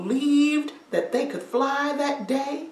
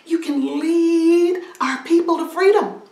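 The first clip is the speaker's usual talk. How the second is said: rousing call; 6 semitones higher, 10 dB louder than usual. Acted. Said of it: "and he says".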